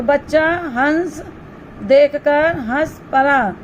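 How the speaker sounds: teacher slowly rereading the example; slow repeat. Shown as a demonstration. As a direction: repeat it slowly so the class hears each word. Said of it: "same sentence repeated slowly".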